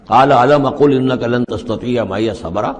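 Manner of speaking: slow Quranic recitation. Shown as a demonstration. Khidr's reply recited calmly and evenly. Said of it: "ذرا ڈانٹ کے انداز میں".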